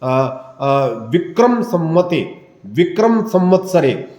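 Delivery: Sanskrit ritual formula, recited evenly; Sankalp recitation. Shown as a demonstration. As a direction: demonstrate a priest's sankalp recitation. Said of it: "संकल्प आदि में बोला जाता है".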